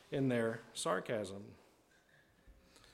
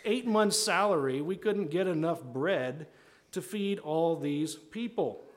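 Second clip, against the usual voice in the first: mildly sarcastic protest, starting high; 4 semitones higher than usual. Acted. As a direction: argue back, slowing to stretch out the impossibility. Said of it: "kind of responding sarcastically here".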